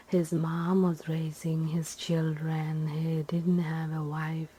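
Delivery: ordinary delivery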